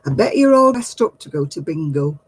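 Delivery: a hint of a cheeky man on the bus; lightly voiced chat-up line, teasing; mild mock of the man's bingo remark; cheeky bus flirt. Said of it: "He said".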